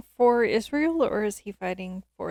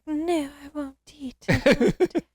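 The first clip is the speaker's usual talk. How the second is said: higher, hammed-up protest; mock dramatic refusal; 6 semitones higher, 5 dB louder than usual. Listener mocks Saul refusing food, hammed-up protest. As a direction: overplay turning down food, getting louder. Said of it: "I hate when people are dramatic like that".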